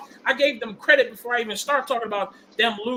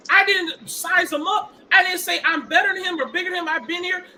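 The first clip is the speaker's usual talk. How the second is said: upset, near tears; 4 semitones higher than usual. Real, not acted. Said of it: "Rave, you better not start crying".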